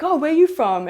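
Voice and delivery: high, bright fake-innocent question; mock surprise. Teasing the girl about her accent, high mock surprise.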